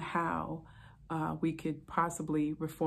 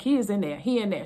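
upset wife; 3 semitones higher, 6 dB louder, faster than usual. Retold or imitated. Wife answering officer from sink.

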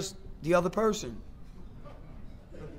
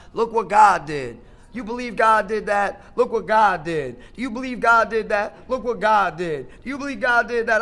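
lightly voiced excited wife, look what God did slowed; a hint of a thrilled wife; imitating wife; 4 dB louder than usual. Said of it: "had my wife starting talking about".

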